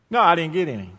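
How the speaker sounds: loud answer. Retold or imitated. Young self answering clerk.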